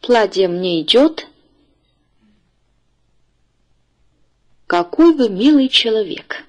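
careful teacher's model reading, phrase by phrase; read-after-me model. Shown as a demonstration. Teacher asks the class to read after her, clear model reading. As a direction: read out each phrase clearly for learners to repeat. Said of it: "请大家跟我读".

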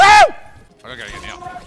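very high, slow, loud squeal; high-pitched drawn-out wail; squealed plea. Real, not acted. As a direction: squeak it out in panic. Frantic fight.

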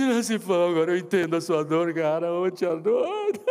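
loud, tearful sobbing plea; crying man. Retold or imitated. Crying man explaining his loss to the pastor. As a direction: blubber it through tears.

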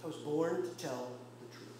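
calm, deliberate restatement after a long pause. Acted. Preacher repeating Jesus's answer to Pilate, very calmly. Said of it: "he says very calmly".

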